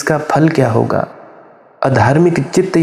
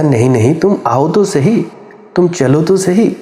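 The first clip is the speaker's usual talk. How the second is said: imitated rescuer's insistent, higher-pitched coaxing; 4 semitones higher than usual. Rescuer urging the doubting man in the well to climb, coaxing. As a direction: urge him along, pitch climbing.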